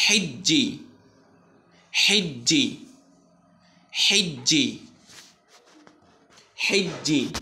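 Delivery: হিজ্জি with a doubled j, chanted; recitation drill. Shown as a demonstration. Teacher leads repetition, clear recitation. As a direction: drill it for the class to repeat. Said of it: "আমার সাথে পড়ুন".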